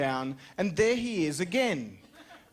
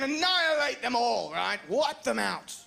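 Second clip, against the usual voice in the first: mock girlfriend orders; 6 semitones higher than usual. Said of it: "she was talking".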